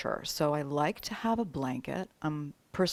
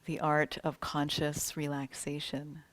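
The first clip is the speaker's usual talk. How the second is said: measured, welcoming meditation guide; unhurried yoga nidra welcome; guided meditation. Real, not acted. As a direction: ease them into relaxation with spaced-out phrases. Opens a guided relaxation.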